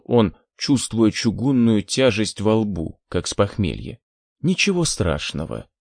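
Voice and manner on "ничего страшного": tender sing-song. Acted. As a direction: coo it like a lullaby. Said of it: "ласково пропела Лилит".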